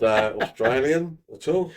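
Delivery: joking Australian "mate" voice; mock Australian accent. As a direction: put on an Australian accent to tease. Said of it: "I can't do a Norwegian accent".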